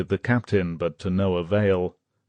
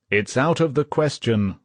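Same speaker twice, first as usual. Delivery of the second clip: mild mock roar; 5 semitones higher than usual. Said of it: "roared the captain".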